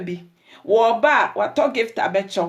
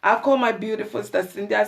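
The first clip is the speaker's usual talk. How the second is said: mock excited calling. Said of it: "then I say".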